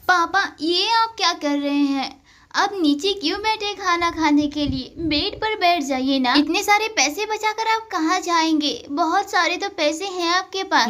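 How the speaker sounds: put-on a young daughter nagging her papa; a hint of a small girl coaxing her father; child daughter voice.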